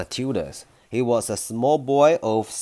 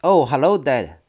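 pleasantly; 3 semitones higher, 7 dB louder than usual. A narrator's reading. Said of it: "she said pleasantly".

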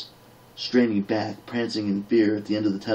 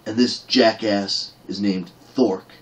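gritted out; 4 dB louder, slower than usual. Acted. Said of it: "gritted the dwarf".

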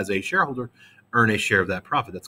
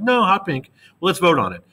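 higher, louder mock-insistent owner; 8 semitones higher, 3 dB louder than usual. Teacher playing majority owner overruling the class, mock insistent and higher. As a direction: overrule them with a cheeky insistence.

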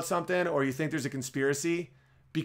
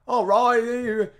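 higher, louder mock Cockney; 7 semitones higher, 6 dB louder than usual. Mock Cockney, imitating a thick Cockney speaker. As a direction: ham up a thick Cockney talker. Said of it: "who does thick Cockney".

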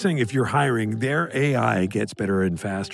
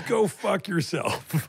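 deadpan brush-off; 7 semitones higher, much slower than usual. Retold or imitated. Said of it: "His answer was".

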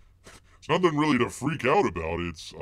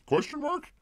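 incredulous. Real, not acted. Incredulous aside.

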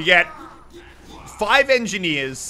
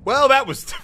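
usual speaking voice

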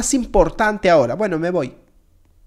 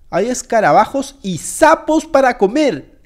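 slow, horrified reveal of the menu; appalled announcement; 4 dB louder than usual. Acted. Player tells viewers what is for dinner, appalled. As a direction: spell out the revolting food, hammed-up.

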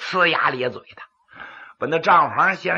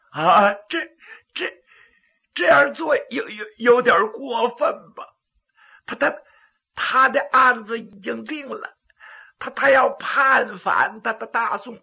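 frightened stammering; 4 semitones higher than usual. Acted.

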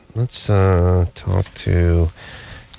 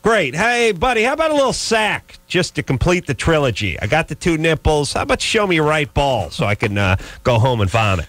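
mock exasperation; 4 semitones higher than usual. Sarcastic mock address to pierced guy.

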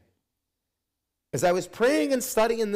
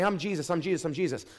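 mock claimant; 4 dB quieter, faster than usual. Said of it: "people are gonna come and say".

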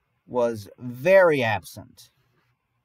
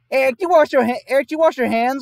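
higher, louder stern demand; stern helper; 9 semitones higher, 5 dB louder than usual. Retold or imitated. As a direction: accuse him like a strict class helper. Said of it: "And then she goes".

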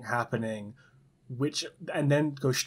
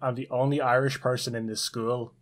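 lightly put-on Irish accent as Seamus; a touch of stage Irish accent; mock Irish accent. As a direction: introduce yourself in a joking hint of Irish accent. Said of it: "I'm not Irish".

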